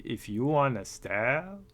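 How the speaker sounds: slow, lightly done broken-English line; a hammed-up bad accent on the repeat; bad put-on accent. Retelling the friend's offer in a mock bad accent. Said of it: "Should I do the voice?".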